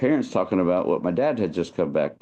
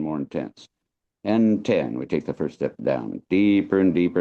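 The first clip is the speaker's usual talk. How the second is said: long drawn-out hypnotist voice; slow hypnotic lullaby. Shown as a demonstration. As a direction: lull them down step by step. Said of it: "that old lullaby, long drawn out".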